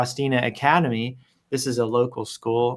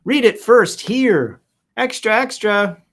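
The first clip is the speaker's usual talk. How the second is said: mock newsboy; 7 semitones higher, 4 dB louder, slower than usual. Newsboy cry.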